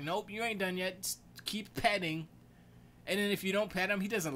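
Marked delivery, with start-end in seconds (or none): 0.0-2.3 high cat voice refusing to let up; insistent cat. Retold or imitated. Cat telling tired owner to keep petting, insistent. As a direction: play a demanding pet, pitched up. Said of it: "He's just like".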